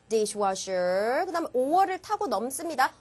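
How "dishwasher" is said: "dishwasher" ending on a rise; slow "dishwasher", left hanging upward; rising list item. Shown as a demonstration. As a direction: stretch and lift the end of "dishwasher". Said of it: "올라가지고".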